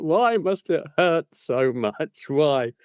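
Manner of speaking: drawn-out, mildly anguished plea; mock lament. Gout sufferer recalling night trips to the bathroom, mock lament. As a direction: wail it slowly in mock self-pity.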